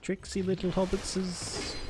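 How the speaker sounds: lightly voiced Gollum line; Gollum-style quote. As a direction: hiss it like a sly cave creature.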